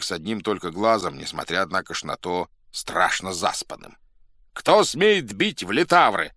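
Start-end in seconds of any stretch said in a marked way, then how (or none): 4.5-6.3 high, loud, drawn-out demand; angry shout. A narrator's reading. Sleepy drummer demands who beat the drums, shouting. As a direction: shout it out slowly, indignant. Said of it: "закричал он".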